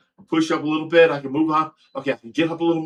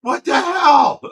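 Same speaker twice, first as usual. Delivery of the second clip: higher, louder shocked shout; shouted what the hell; 12 semitones higher, 7 dB louder, slower than usual. Retold or imitated. Retelling the fall to viewers, shocked shout. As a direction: yell it out in disbelief. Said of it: "It was like".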